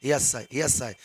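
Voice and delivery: low, soft repeated yes sir; quiet attentive yes sir. Shown as a demonstration. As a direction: murmur assent to the speaker. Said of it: "ऐसे style वो बोलता है ना".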